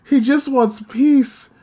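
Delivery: slow, pleading near-tears voice; real distress, about to cry. Real, not acted. Fan upset over Aqua wanting peace, on the verge of crying. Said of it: "verge of crying".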